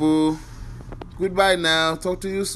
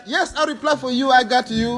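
higher, lightly voiced second brother; a hint of another guy answering; pretend brother; 3 semitones higher than usual. Plays translator again.

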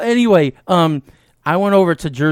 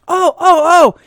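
high, rising "oh, oh, oh"; imitating the lady's eager oh; mock old lady delight; 14 semitones higher, 6 dB louder, slower than usual. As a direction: play her sudden pleasure. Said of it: "she goes".

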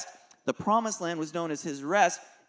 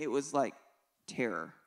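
hushed terror; 5 semitones lower, 7 dB quieter than usual. Real, not acted. Father telling the congregation about his daughter's fear, hushed. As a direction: drop low and quiet on terror.

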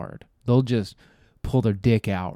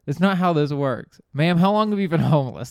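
higher, bewildered question to the homeless woman; mock incredulous; 4 semitones higher than usual. Comic asking the woman with a dollar, baffled and higher. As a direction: play baffled disbelief, pitched up. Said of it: "I'm like".

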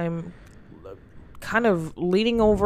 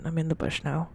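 whispered; 6 dB quieter than usual. Acted. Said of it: "speak up a little bit".

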